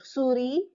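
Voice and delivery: souris as sou-ri, no final S; French souris without the last S; silent S. Shown as a demonstration. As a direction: end souris on a lifted ee. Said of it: "S is silent".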